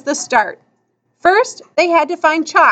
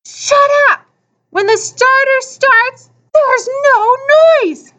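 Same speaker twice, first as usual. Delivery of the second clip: high, angry yell; raised, snarling order; snarled; 11 semitones higher, 4 dB louder than usual. A narrator's reading. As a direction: scold a noisy crowd at a shout. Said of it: "Bump turned and snarled".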